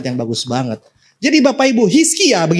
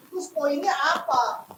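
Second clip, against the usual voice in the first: much softer and slow, Terus poinnya apa? asked quietly; soft question; 11 semitones higher, 8 dB quieter, slower than usual. Acted. Preacher voicing a listener's doubt, soft and slow. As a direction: murmur Terus poinnya apa? as a puzzled thought.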